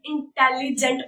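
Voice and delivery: इंटेलिजेंट parted as इन-टेलि-जेंट; इंटेलिजेंट with small breaks between syllables; broken into syllables. Shown as a demonstration. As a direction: say "इंटेलिजेंट" in separated chunks. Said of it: "थोड़ा तोड़कर".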